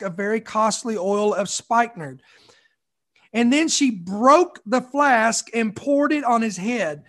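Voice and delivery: measured, reverent Bible reading; scripture reading. Acted. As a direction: read the passage with solemn weight. Reads scripture aloud.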